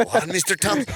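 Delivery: puzzled pupil with an attempted Norwegian accent. Comedy pupil questioning Mister Thomas, poorly attempted Norwegian accent. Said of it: "I'm trying to do a Norwegian accent".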